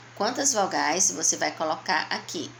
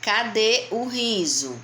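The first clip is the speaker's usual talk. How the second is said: slow questioning read; 3 semitones higher, slower than usual. Shown as a demonstration. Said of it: "Leia a frase abaixo".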